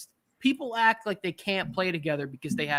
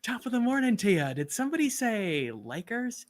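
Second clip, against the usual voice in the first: mock character voice; 6 semitones higher than usual. Mock voice after a laugh.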